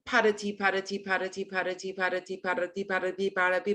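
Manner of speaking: quick, run-together pot of tea. Shown as a demonstration. Voice coach speeding the phrase up for the class. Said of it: "and then faster".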